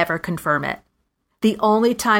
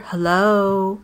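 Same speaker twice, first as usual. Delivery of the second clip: innocent hello. Pretend. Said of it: "something crazy like that".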